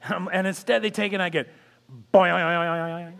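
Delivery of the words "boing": loud imitated error beep, boing; rejected pass boing. Ticket gate refusing the pass, imitated boing. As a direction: mimic the gate machine rejecting you. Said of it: "that sound as you go through".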